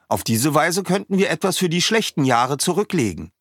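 put-on chatty young villager explaining his village; Weizi the villager. A narrator's reading. Weizi repeats priest's advice.

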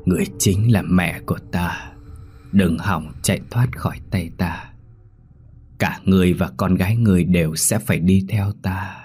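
a hint of a menacing doll, words ground out; giọng búp bê gằn từng chữ đe dọa. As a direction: threaten her word by word, half whispered. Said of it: "gằn lên từng chữ".

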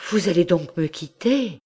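voix montée, effrayée, la marquise terrifiée; terreur. A narrator's reading. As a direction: demander avec une terreur contenue. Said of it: "avec un sentiment qui allait jusqu'à la terreur". (la marquise terrifiée demande au docteur s'il part, plus aiguë)

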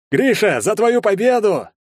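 a tipsy onlooker shouting a toast; drunk toast. A narrator's reading. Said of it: "пьяно проголосил зевака". (пьяный тост, громко)

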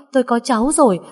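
joyful shout. A narrator's reading. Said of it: "hét lớn".

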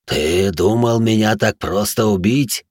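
slow, hollow monster voice; booming echo in head. Acted. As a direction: drag it out like a beast inside his head. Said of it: "Гулкий утробный голос эхом прозвучал у меня в голове".

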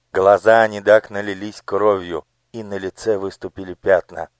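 ordinary delivery, nothing marked

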